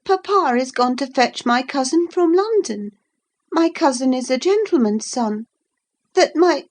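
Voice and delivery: put-on high, outraged young girl; a spoiled child threatening; indignant Cathy. A narrator's reading. To the lad, a high outraged threat.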